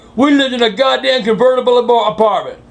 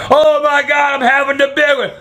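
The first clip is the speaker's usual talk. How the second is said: hammed-up "big one" cry, higher; Fred Sanford; 5 semitones higher than usual. Out of breath after running, mock heart-attack wail. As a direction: play the fake heart attack. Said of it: "I felt like Fred Sanford".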